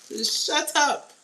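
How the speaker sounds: slow, loud and high, drawn out; talking back at the reading, done with the nonsense; exasperated shut up. Real, not acted. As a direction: tell them to shut up, fed up. Telling the liar to stop.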